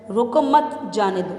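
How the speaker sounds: "روکو مت" in one go, short break, "جانے دو"; pause after مت. Shown as a demonstration. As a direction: keep مت attached to روکو, then release جانے دو. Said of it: "سکتے کو اس مت کے بعد لگائیں".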